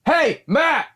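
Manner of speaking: high, shrill-pitched yapping dog calling Matt; barking dog voice. Pretend. Dog shouting at its owner while he talks, high yapping voice. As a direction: yell his name like an excited little dog. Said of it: "I think it's more of a".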